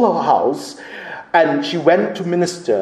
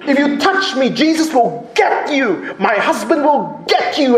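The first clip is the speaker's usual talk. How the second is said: raised-pitch imitation of a defiant shout; shouted warning; 6 semitones higher than usual. Cornered missionary threatening armed robbers, mock shouting. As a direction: retell a desperate threat with force. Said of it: "shouting out as loud she was".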